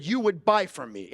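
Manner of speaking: firm falling "You would buy from me."; certain statement. Shown as a demonstration. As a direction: state it, don't ask. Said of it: "I didn't ask her".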